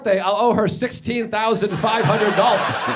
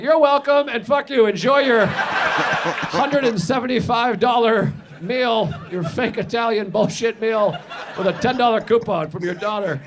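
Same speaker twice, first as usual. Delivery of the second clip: sarcastic gloat; 3 semitones higher, 3 dB louder than usual. Retold or imitated. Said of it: "You're like".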